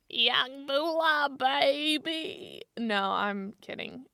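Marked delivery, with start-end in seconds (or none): 0.1-2.6 very slow drawled rapper voice; mock rapper drawl, half speed; impression of a rapper. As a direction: stretch it out like a rapper. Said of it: "my whole story as a rapper".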